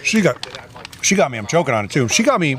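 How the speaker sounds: chewing while talking; talking through a mouthful of food; mouth full. Real, not acted. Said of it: "Everyone can hear as I'm chewing on something".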